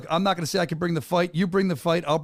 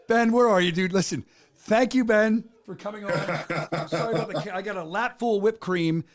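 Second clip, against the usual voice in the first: real laughter breaking through; laughing; 4 semitones higher than usual. Real, not acted. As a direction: try to talk while laughing. Laughing after cake in face.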